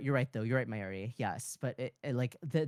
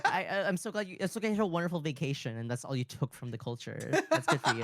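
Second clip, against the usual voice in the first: high mocking sarcasm; fake-sweet congratulations; sarcastic; 3 semitones higher, faster than usual.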